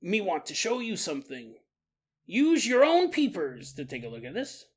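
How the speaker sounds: a light put-on British teen accent, calling over; a hint of cockney lads beckoning. Teenagers in England calling Max over, British accent. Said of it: "they're like".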